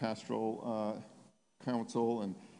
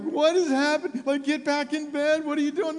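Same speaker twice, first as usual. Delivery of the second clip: imitated family shrieks, high and loud; retold screaming; 11 dB louder than usual. Preacher voicing family who came back in, mock screaming. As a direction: act out a screaming, alarmed family.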